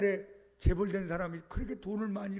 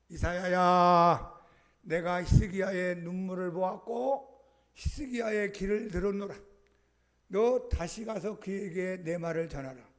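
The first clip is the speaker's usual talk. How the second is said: voice of God; 3 dB louder than usual. Acted. God speaks to Isaiah.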